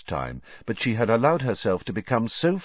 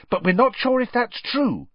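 quick; 3 dB louder than usual. A narrator's reading. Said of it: "said Hermione quickly".

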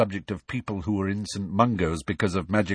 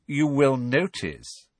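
low sneer; 5 semitones higher, slower than usual. Acted. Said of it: "in his low, sneering voice".

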